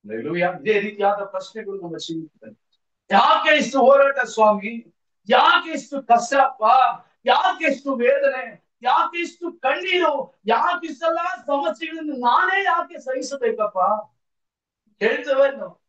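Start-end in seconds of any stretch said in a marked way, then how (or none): 3.1-13.8 raised, insistent cry to God; acted lament, one question after another; anguished pleading. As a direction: plead as a worn-out believer demanding answers. Voicing believers' anguished questions to God.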